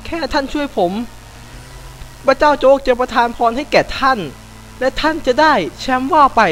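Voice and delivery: 3 bless the cop like a street preacher; 4 a gamer bribes the police with god Joke's blessing, mock-preachy; 1 mock sermon.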